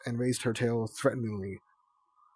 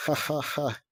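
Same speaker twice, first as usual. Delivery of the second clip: mock laugh; 4 semitones higher than usual. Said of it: "Clay said".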